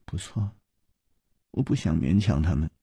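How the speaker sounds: 压低声音自言自语，末句说快; 低着头喃喃地说; 喃喃低语. A narrator's reading. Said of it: "喃喃地说". (公主低头喃喃自语)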